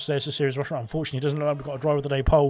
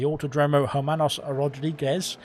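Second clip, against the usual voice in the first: lightly attempted Spanish accent; mock-proud go at a Spanish accent. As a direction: put a touch of Spanish accent on the name. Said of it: "my very good Spanish accent".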